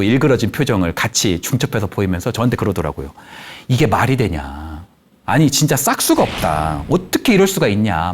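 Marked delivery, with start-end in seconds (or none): 3.7-8.1 retold indignation. Grandfather venting to counsellor about grandson, retold indignation. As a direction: mildly imitate an indignant grandfather. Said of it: "화를 막 내시기 시작을 하더라고요".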